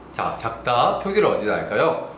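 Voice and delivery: ordinary delivery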